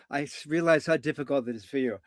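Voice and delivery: soft, empathetic acknowledgement; hushed therapist sympathy; soothing coach. Retold or imitated. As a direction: reassure an upset client softly.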